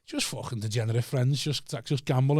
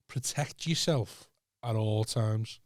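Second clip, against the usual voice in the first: mock stern warning; 4 semitones lower, 9 dB quieter, much slower than usual. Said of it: "I had said to him".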